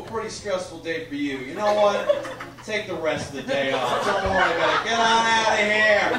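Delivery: lightly voiced, reassuring boss; sympathetic boss. Boss to a crying female employee, sympathetic. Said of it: "The boss comes by, he's like".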